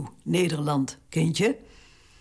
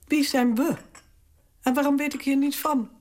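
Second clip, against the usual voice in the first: higher, faster, sharp indignant questions; verontwaardigd verrast; 8 semitones higher than usual. Acted. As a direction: demand to know why she was left out. Queen learns of secret talks. (verontwaardigd en verrast, hoger en sneller)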